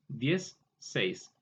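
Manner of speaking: "diez", pause, "seis", as two separate words; split into parts. Shown as a demonstration. Teacher taking dieciséis apart, "diez" and "seis" said separately. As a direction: set "diez" and "seis" apart, the second falling. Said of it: "al compuesto".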